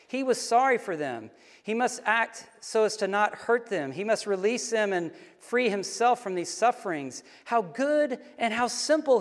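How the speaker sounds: measured, dramatic reading aloud; story reading. A narrator's reading. Reading the dying man's last moments to listeners, solemn story reading. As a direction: read the passage with deliberate pauses. Reads a passage from the book aloud.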